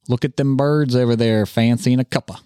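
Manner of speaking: British attempt with a hillbilly twang; botched British accent, hillbilly-tinged; bad British accent. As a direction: try British and land in hillbilly. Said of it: "that was a hillbilly accent trying to speak British".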